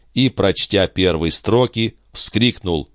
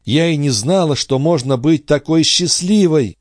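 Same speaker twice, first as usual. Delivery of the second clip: a higher, lifted voice brimming with joy; Andrée's joyful voice; 9 semitones higher, 3 dB louder than usual. A narrator's reading. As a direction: glow with sudden happiness. Andrée rejoicing.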